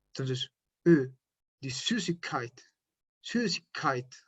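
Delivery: Süßigkeit with rounded lips saying E, soft and slow; umlaut demo. Shown as a demonstration. Teacher shows the umlaut to Spanish speakers, slow and soft. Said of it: "Así suena".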